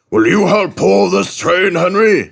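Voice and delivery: high, loud request; director asking. A narrator's reading. Director asking Henry for help, high loud voice. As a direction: ask eagerly. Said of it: "he asked".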